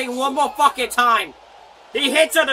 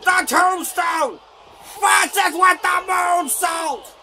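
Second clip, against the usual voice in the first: excited play-by-play; 4 semitones higher than usual. Real, not acted. Calling the moves live.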